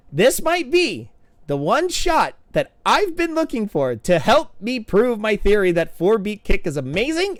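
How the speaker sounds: excited coach thrilled by a clip; giddy excitement. Real, not acted. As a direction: sell it like a big discovery. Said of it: "way too giddy over this".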